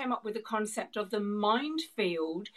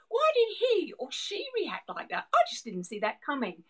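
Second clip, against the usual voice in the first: bewildered inner voice; 4 semitones higher than usual. Retold or imitated. Voicing people's confused inner thoughts.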